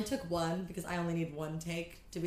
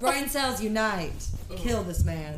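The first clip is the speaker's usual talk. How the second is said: mock battle cry; 2 semitones higher, 7 dB louder, slower than usual.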